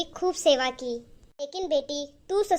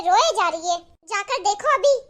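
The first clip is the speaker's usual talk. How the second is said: रोए jumps louder, irritated; 2 semitones higher, 5 dB louder than usual. Acted. Husband pushes wife to check on mother, louder and irritated. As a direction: push रोए hard, annoyed.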